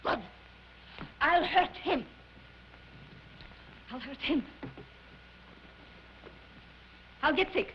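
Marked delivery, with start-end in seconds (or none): 1.2-2.0 firm, emphatic threat; theatrical vow of payback; vengeful vow. Acted. Vows revenge, then repeats it brooding. 3.9-4.4 lower, softer threat; quiet, scheming menace; brooding vow. Acted. Repeats the vow to herself.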